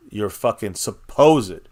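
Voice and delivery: supposed stretched out slowly and leaned on; stress on supposed. Shown as a demonstration. Streamer mocking the Joneses' all-in claim, slow stress on supposed. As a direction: drag out supposed to mock it. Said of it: "And I stress the word supposed".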